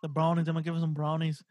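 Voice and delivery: badly faked English accent, pitched low. Shown as a demonstration. Co-host joking about brownies, bad English accent. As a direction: try an English accent and miss. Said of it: "That was the worst English accent I got".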